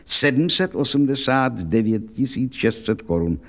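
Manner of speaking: slow and grave, each number weighed; serious. Acted. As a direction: state the sum gravely and deliberately. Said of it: "řekl vážně".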